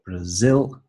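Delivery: Brazil with ZIL long and rising; stress on second syllable. Shown as a demonstration. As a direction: say bra-ZIL, brief first syllable, lifted second. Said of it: "the stress is on the second syllable".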